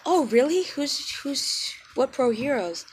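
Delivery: high, loud excited asking; eager classmates. Retold or imitated. Classmates eagerly asking about the fathers, high excited voice. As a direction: jump on the news eagerly.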